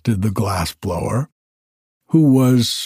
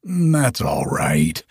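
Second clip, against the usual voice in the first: happy; 7 semitones lower, slower than usual. A narrator's reading. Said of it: "replied the happy glass blower".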